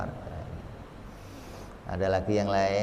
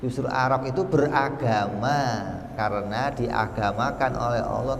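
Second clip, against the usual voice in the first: ordinary talk, nothing marked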